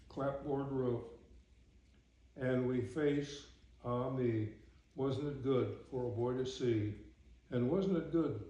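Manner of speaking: measured, rhythmic verse reading; poem recitation. Acted. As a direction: read it as homely verse, phrase by phrase. Reads a poem aloud.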